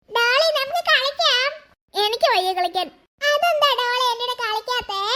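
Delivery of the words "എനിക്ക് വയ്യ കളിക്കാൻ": a talking doll speaking gently; magic doll voice. Acted. Doll refuses to play.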